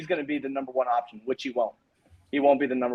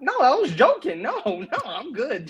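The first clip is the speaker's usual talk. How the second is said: laughing it off; 9 semitones higher than usual. Real, not acted. Turning down the trade from a co-host, laughing. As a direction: giggle while waving off the offer.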